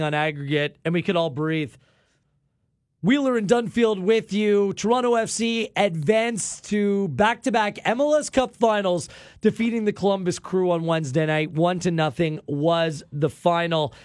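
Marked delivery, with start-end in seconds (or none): 3.0-13.9 measured sports radio announcement; radio announcer reset. Real, not acted. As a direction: announce the result to listeners. Radio host resets the show.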